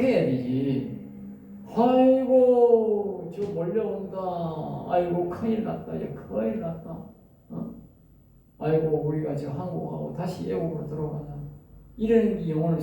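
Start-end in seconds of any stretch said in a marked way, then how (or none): 1.7-11.3 hammed-up alarm, dying down to a mutter; mock panic. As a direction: play the Israelites panicking as the enemy comes. Preacher acts panicked Israelites.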